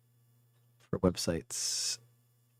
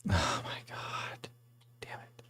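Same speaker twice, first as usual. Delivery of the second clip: whispered, softer, to himself; frustrated whisper; 4 semitones lower, 9 dB quieter, slower than usual. Real, not acted. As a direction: curse under your breath, unvoiced. Missed round, muttering to self.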